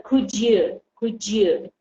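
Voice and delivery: COULD YOU run together, d and y blending into a j sound; linked could-you. Shown as a demonstration. Teacher modelling linked speech for the class, could-you blended. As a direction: say "Could you" as one joined "could-jou". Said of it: "we have something which is between ye and je".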